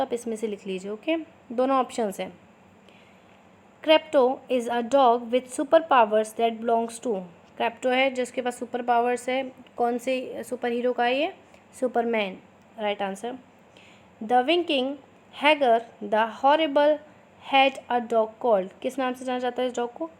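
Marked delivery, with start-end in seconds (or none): 3.8-7.2 slow, clear dictation pace for students to write. Shown as a demonstration. Teacher dictating slowly to her students. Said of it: "थोड़ा मैं slow slow बोलूँगी". 14.2-18.7 slow, clear dictation pace for students to write. Shown as a demonstration. Teacher dictating slowly to her students. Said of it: "थोड़ा मैं slow slow बोलूँगी".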